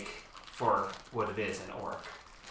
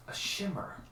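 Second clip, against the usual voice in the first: whispered, higher, softer; eerie whisper; 8 semitones higher, 8 dB quieter than usual. A narrator's reading. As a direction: breathe it out eerily. Eerie vision appears.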